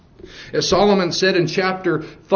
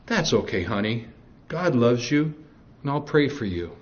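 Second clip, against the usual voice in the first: sweet devil; 3 semitones lower, 5 dB quieter than usual. Retold or imitated. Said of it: "Satan would have responded to this young girl saying".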